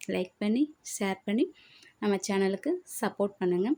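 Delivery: usual speaking voice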